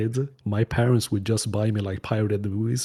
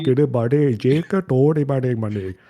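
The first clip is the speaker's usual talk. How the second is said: raised, dragged-out mock Urdu dub; mock shouting; 4 semitones higher, slower than usual. Friend imitating the Urdu-dubbed Matrix, mock shouting. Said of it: "he's, like, shouting at them".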